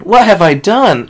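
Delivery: high, loud and slow, stress on "What". Acted. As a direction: drag it out with the weight on "What". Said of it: "Rainbow Dash yelled in despair and anger".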